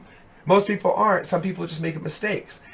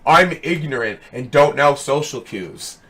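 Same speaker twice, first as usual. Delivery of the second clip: mock ignorant viewer; 6 dB louder, slower than usual. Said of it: "he gets to just show up".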